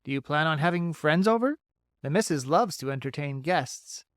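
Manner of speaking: bright, chatty critter voice; a friendly old beaver, upbeat; folksy beaver voice. Acted.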